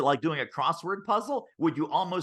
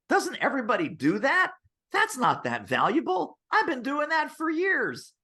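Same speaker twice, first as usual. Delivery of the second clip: high, doubting inner voice, pitched well up; high mock whine of self-doubt; whiny inner voice; 9 semitones higher than usual. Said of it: "the soundtrack in your head typically".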